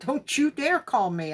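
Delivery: defiant cry at God. Retold or imitated. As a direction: warn him off fiercely. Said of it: "I'm telling God".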